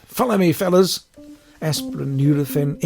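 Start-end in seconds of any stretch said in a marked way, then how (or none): 0.0-1.1 loud, high rallying shout. A narrator's reading. Stacy rallying her animals with a loud shout. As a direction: call the troops to follow, loud.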